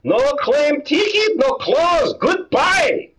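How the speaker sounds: high, dismissive shopkeeper; curt dry cleaner. Acted. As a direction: shut him down curtly.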